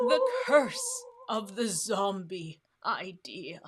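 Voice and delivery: slow spooky whisper. Shown as a demonstration. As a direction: whisper it like a ghost story. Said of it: "I like my spooky voice".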